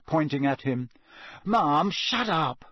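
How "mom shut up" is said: loud, drawn-out yell at his mother. A narrator's reading. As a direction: shout her down. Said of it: "Ron yelled".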